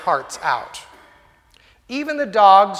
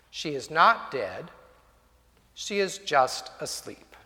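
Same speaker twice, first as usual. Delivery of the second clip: calm; 4 semitones lower, 4 dB quieter than usual. Acted. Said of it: "And Jesus said calmly".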